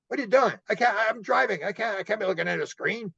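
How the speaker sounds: startled driver protesting a sudden screen; alarmed protest. Retold or imitated. Startled by screen while driving.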